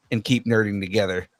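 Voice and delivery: put-on deepened French accent sign-off; deep mock French accent. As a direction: drop the voice low for a French accent. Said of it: "deepen your voice when you make fun of French people".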